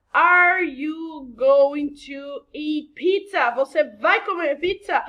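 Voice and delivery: loud, drawn-out example question; hammed-up eager asking; emphatic question. Shown as a demonstration. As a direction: ask it slowly with big, exaggerated emphasis.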